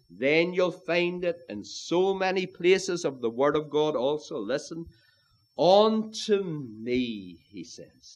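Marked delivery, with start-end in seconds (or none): 5.6-7.4 "me" drawn out very slowly; emphatic ME. Shown as a demonstration. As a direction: stretch "me" and let it hang. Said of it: "That's emphatic also".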